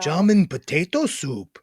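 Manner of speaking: understated mock German; German accent. Shown as a demonstration. Speaker practises a food name, mild German accent. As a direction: say the dish with German vowels. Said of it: "Maybe just say, like, German food".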